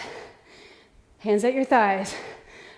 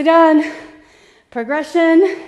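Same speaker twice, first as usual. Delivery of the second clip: loud cheer; 5 semitones higher, 11 dB louder, slower than usual. Real, not acted. Coach cheering class on.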